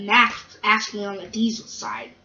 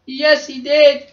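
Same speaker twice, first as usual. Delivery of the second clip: loud, slow, higher-pitched confirmation; emphatic wail; 4 semitones higher, 8 dB louder, slower than usual. Acted. Gordon answers the controller about the lesson, emphatic wail. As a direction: wail it out, stretched.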